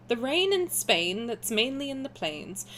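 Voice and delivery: elocution lesson in posh English; posh English accent. Shown as a demonstration. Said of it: "I did used to talk like that".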